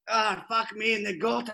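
goat voice impression. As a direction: do the goat's voice. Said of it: "Like that".

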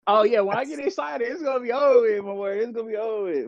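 playful show of a Southern twang; excited Southern twang. Shown as a demonstration. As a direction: lean into your Southern accent as if excited. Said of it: "Wait till you get excited".

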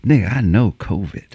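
low, stubborn buddy voice; buddy insisting. Retold or imitated.

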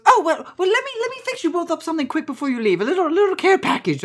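high, loud, flustered auntie voice; fussing auntie. Acted. Auntie offering a care package, high fussing voice. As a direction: fuss over them, pitched high.

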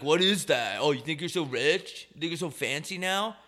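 mock-indignant jeer; mock freak-out. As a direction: lightly imitate an affronted local sneering at fancy clothes. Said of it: "people freak the fuck out".

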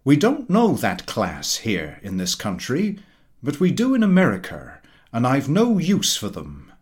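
hint of a loud, opinionated dinner guest holding court; pompous Mister Huttle. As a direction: lecture the table like a self-satisfied know-all.

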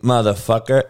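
normal talking voice

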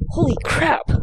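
sudden high startled gasp of words. Real, not acted. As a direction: caught off guard as the mic falls. Microphone falls on her.

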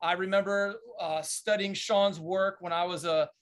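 upbeat host voice opening the show; podcast host intro. Acted. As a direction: announce the episode like a show host. Host opens the podcast episode.

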